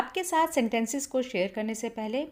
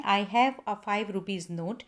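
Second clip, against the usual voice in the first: slow wrong example; much slower than usual. Shown as a demonstration. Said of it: "आपने ये नहीं बोलना है".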